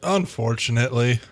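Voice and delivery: whispered, grimly reluctant; a reluctant whispered aside. Acted. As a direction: breathe it out under your breath. Grim reply to the inspection question.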